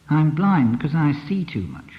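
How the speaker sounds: slow, with blind stressed. Shown as a demonstration. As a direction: lean on the word blind. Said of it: "Which words are emphasized?".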